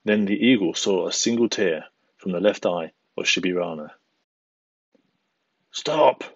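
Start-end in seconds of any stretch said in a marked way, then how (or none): 5.7-6.2 sharp, high, forceful stop; thundering. A narrator's reading. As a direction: bark the word stop out. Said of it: "thundered the eagle".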